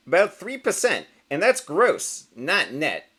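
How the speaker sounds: a proud little boast; smug showbiz duck. Acted. Rubber Duck answers.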